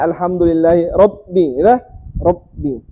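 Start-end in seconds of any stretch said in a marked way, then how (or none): 1.0-1.6 "Rabbi" with the b doubled; "Rabbi" split as rab-bi; tasdid on b. Shown as a demonstration. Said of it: "Begitu cara tasdid ya". 2.2-2.8 "Rabbi" with a held, doubled b; tasdid on b. Shown as a demonstration. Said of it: "Begitu cara tasdid ya".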